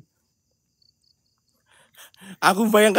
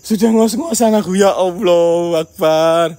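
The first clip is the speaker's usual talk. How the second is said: laughing; 4 dB louder, slower than usual. Real, not acted. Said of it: "Aduh, sudah ngos-ngosan aku".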